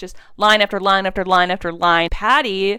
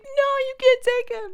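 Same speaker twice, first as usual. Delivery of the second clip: much higher desperate plea; pleading cry. Retold or imitated. Patty begging the cops not to take Simon, high-pitched. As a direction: plead as they take him away, high. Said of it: "Patty runs up and she's like".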